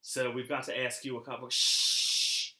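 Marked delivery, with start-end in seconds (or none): 1.5-2.5 low, hushed, slow hunter voice; Elmer Fudd. Retold or imitated. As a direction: hush them like a hunter stalking rabbits. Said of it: "slipped from Elmer Fudd".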